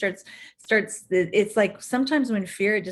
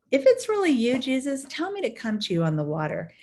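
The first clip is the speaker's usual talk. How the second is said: eager Peter; 5 semitones higher than usual. Retold or imitated. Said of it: "So Peter says".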